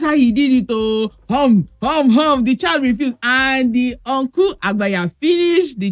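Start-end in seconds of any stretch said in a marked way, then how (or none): 1.3-2.4 repeated playful chomping "hum"; imitated bites. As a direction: mimic greedy bites. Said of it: "You see that hum? He took a bite".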